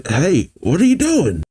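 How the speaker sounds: restrained indignant yell; yelling in protest. Acted. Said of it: "As the bird keeper yells".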